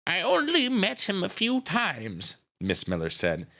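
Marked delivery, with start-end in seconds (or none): 0.1-2.3 put-on high, slow old-lady voice. A narrator's reading. Miss Miller questioning grieving Nita, slow old lady. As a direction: draw it out as a genteel old woman. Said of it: "she's an old lady".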